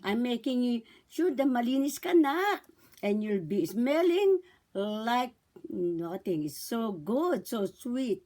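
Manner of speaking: put-on slow, lightly cooed baby talk; mother to baby. Shown as a demonstration. Mother washing her baby clean, slow and cooing. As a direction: draw out the words for a baby.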